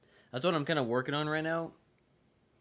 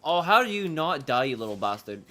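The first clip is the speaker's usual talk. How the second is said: frustrated yell; 7 dB louder than usual. Real, not acted. Frustrated at enemy not dying.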